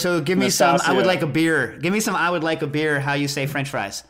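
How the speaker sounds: hint of a French accent; fake French accent. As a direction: order a beer in a put-on French accent. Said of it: "full fake accent on me".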